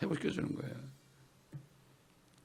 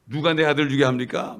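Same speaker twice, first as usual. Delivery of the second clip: louder, imitating an indignant pastor; mildly angry retort; 6 dB louder than usual. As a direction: retort with a touch of mock outrage. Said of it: "막 화가 난 거야".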